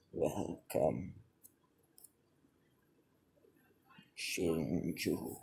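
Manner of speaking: low, soft and eerie voice; a low, hushed uncanny welcome; distorted chaotic voice. Acted. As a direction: greet him like a warped ghost from a memory. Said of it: "cracked and distorted voice".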